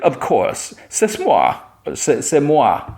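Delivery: high, self-adoring princess voice; preening princess. Retold or imitated. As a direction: play a vain princess flourishing her French. Princess preens at imagined love.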